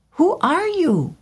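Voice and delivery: very high wondering bird voice; swallow asking. A narrator's reading. Swallow looking up at the weeping prince, high. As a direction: ask it in awe. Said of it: "he said".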